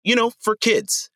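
high-pitched cartoon character imitation; silly kids'-show voice. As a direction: put on a cheesy preschool-TV voice. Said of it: "characters' voices are just like".

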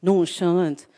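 "Nonchalant" in a light mock French accent, nasal end; a hint of French accent on "Nonchalant". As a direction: imitate a French speaker saying "Nonchalant". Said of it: "she used a French accent".

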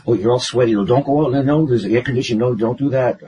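hurried string of motherly warnings; worried Italian mother. Retold or imitated. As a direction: scold them with mild alarm.

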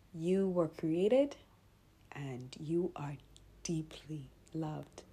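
slow, soft unvoiced whisper; whispered blessing. Real, not acted. Podcaster to listeners, slow soft whisper. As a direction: hush it like a tender promise.

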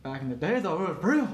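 jokingly insist, pushing up on the last word; mock insistence. Co-host jokes about old wrestling, mock insistence. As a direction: voice swings up on real. Joking, then repeated as legit.

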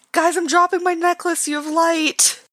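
acted yell. Player yells down to fallen party members, acted yell. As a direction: call down to friends in a high, contained yell. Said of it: "down to them and just yell".

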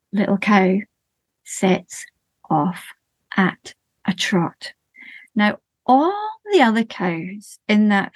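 slow, rhythmic storytelling voice; lilting children's storyteller; story narration. A narrator's reading. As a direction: tell it gently to a listening group. Tells a sensory story to audience.

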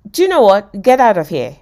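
loud, fed-up dismissal; frustrated. Acted. Phoebe giving up on teaching Joey, loudly frustrated. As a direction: throw out a hopeless pupil. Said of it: "Phoebe got so frustrated".

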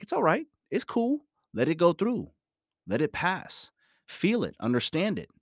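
light, high soothing voice; soothing self-talk. Shown as a demonstration. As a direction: talk yourself down gently up high. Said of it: "I speak this way, then I go".

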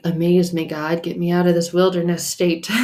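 excited half-laughing prayer; pleading to God. Retold or imitated. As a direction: call out playfully to God, laughing. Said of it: "And I was like".

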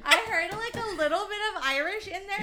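high, loud delighted laughter through words; laughing. Real, not acted. Praising his accent demo, laughing hard.

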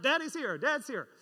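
put-on alarmed kids. Children warning each other, urgent call. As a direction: sound the alarm that dad's coming.

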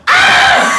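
high yelled "Ah!" in mock panic; sudden panicked yelp; retold shout. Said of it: "I sort of just went".

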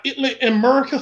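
hammed-up Southern country pronunciation; Southern US country accent. Shown as a demonstration. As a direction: say it with a Southern twang. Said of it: "trying to do a Southern accent".

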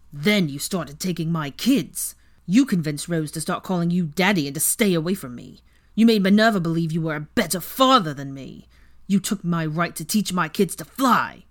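Weasley accuses Draco, bitter and loud; bitter accusation. Acted. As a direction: pour out the grievance, rising in anger. Weasley's rant continues.

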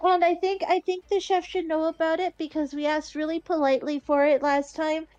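shy, rambling explanation. Acted. Shy girl explaining her order to the barkeep, hesitant. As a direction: trail on hesitantly, unsure of yourself. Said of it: "like, really shyly".

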